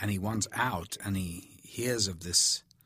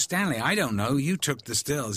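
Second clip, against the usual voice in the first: higher, louder mock exasperation; exasperated retort; 5 semitones higher, 4 dB louder than usual. Secretary reminds Stanley he took the stills, exasperated. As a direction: toss it back at him, a bit fed up.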